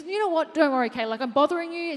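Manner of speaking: high, rushed, apologetic imitation; imitating a flustered lady saying sorry; flustered apology. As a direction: mimic her flustered embarrassment. Lady apologising to Kayla, retold.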